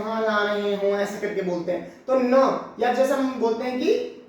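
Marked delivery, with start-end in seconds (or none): 0.0-0.9 nasal voice. Shown as a demonstration. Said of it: "ऐसे नाक से बोलते हैं".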